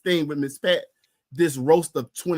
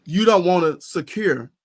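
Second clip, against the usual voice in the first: petty mock voice; 3 dB louder, slower than usual. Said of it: "it's so petty that it says".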